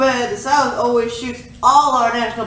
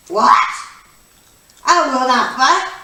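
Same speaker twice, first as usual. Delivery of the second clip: outraged; 4 dB louder, slower than usual. Acted. Rich man outraged at draft.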